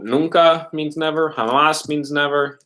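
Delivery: slow, deliberate vocabulary lines; slow clear definitions. Shown as a demonstration. Teacher slowly teaches students the two words for never. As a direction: spell out each meaning slowly. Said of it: "teaching the word for never".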